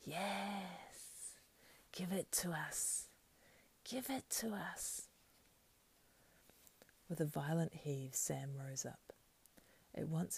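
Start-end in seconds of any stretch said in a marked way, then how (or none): 0.0-5.1 high, slow whispery creature demand; greedy creature voice. Acted. Creature demanding to be given the ring, greedy high voice. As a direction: draw it out, high and covetous.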